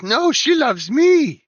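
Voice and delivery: loud, high, slow right head; bickering giant head. Acted. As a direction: bicker back as the other head. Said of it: "And the right head says".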